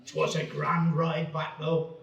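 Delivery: put-on slow voiceover line in a funny regional accent; slow rustic British accent for an old advert; comedic parochial accent. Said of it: "funny accents".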